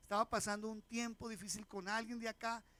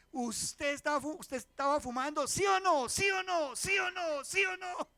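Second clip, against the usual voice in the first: furious father yelling, much higher and louder; angry father shouting; 8 semitones higher, 10 dB louder than usual. Retold or imitated. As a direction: bark the question at a son caught smoking. Father confronts son about smoking.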